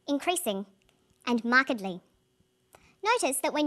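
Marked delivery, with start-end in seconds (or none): 0.1-0.7 increasing stressed on CREA, the first syllable short; word stress demo. Shown as a demonstration. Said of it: "we say". 1.3-2.0 markedly stressed on MARK, the rest short; word stress demo. Shown as a demonstration. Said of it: "we say".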